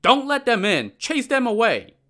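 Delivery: high, loud commanding shout; shouted orders. Acted. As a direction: bellow the order to his men. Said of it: "Prefect Cai shouted to his men".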